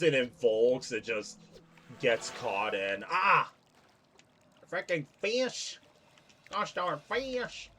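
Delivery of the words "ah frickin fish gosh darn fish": frustrated. Real, not acted. Losing the fish again.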